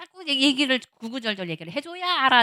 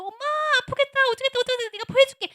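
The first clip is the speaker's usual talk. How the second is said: high, fussing daughter's voice, much higher; caring daughter; 12 semitones higher, 4 dB louder, faster than usual. Acted. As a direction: play a worried daughter fussing over mom. Daughter fussing over hurt mom.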